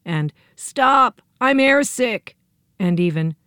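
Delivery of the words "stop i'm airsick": piteous wail. A narrator's reading. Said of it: "a piteous wail arose".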